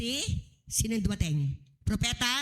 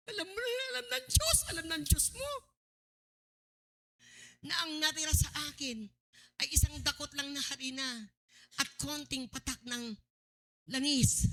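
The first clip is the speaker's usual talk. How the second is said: crying widow; 3 semitones higher, 4 dB quieter than usual. Acted. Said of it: "Humiyak na yung babae".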